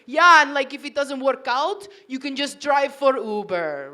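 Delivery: imitating an Italian husband, loud opening; Italian accent. Husband offering wife a fallback job, Italian accent. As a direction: put on his casual Italian accent. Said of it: "he says it in the accent".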